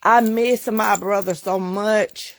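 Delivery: slow, fighting back tears; holding back tears. Real, not acted. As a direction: say it slowly, trying not to cry. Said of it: "I'm trying not to cry now".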